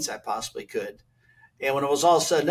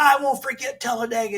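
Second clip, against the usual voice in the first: higher-pitched mock warning; to Earnhardt after the water bottle hit, mock angry; retold threat; 10 semitones higher than usual. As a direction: throw the grudge back at him.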